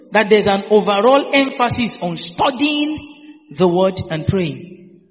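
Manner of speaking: slow, spaced dictation so they can write; dictating slowly. Shown as a demonstration. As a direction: spell it out slowly for note-takers. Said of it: "Write this down".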